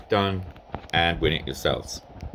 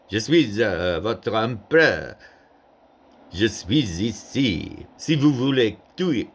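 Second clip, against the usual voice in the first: raised, proclaiming emperor, slowing down; a hammed-up imperial address; Napoleon in French; 5 semitones higher, 3 dB louder than usual. Shown as a demonstration. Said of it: "he would be".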